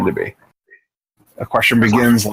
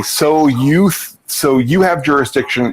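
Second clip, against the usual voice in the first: incredulous tone; 2 semitones higher, slower than usual. Shown as a demonstration. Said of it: "incredulity doesn't have any place in court".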